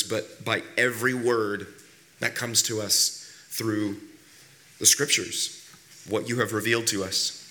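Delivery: deliberate prayer with pauses between phrases; public prayer. Acted. Pastor leads the congregation in prayer before preaching, deliberate public prayer.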